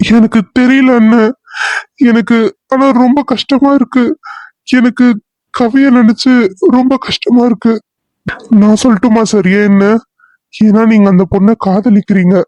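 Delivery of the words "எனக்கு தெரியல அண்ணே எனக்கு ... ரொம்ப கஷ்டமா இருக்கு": mildly tearful, slightly raised pitch. Acted. Distraught officer confiding in his colleague about the missing girl, tearful. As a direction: confess distress with a touch of crying. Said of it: "இந்த மாதிரி அழுதது".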